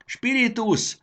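very high, loud cry; shouted. A narrator's reading. Jakab cries to his lamp as they are swept upward, shouting. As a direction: cry out the name in alarm. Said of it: "kiáltotta Jakab".

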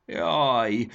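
high, loud ow; pained groan. A narrator's reading. Jakab has crash-landed on books, groaning in pain. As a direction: yelp a little at an aching leg. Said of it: "nyögte sajgó lábát simogatva".

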